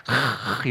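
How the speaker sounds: long rasped 흐; 흐 as a drawn-out back-of-throat friction; guttural h demo. Shown as a demonstration. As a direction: hold 흐 as a scraping throat sound. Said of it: "이렇게 읽어요".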